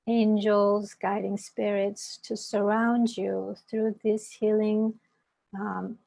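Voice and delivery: measured invocation with pauses between phrases; guided meditation. Acted. Meditation teacher inviting listeners to set an intention, guided meditation.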